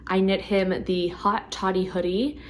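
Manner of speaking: slow, strained losing-voice tone. Real, not acted. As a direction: talk through a tired, failing voice. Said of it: "I'm losing my voice".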